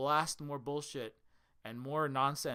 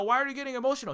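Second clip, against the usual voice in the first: imitating dad; 10 semitones higher, 6 dB louder, faster than usual. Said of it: "And he'll be like".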